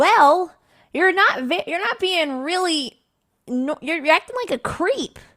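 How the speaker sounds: severe stern scolding tone, very high and very loud. Answering a creepy stranger in character, looking at him: stern. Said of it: "I look at this man very sternly, and I say".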